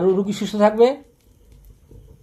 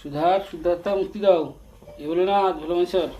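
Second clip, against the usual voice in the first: chanted prayer in a raised, steady voice; loud invocation. Real, not acted. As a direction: call on the gods aloud. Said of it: "জোরে জোরে?". (উঁচু গলায় মন্ত্রের মতো প্রার্থনা)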